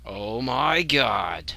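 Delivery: slow loud drawn-out disbelief; stunned disbelief. Real, not acted. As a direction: stretch it out in shock.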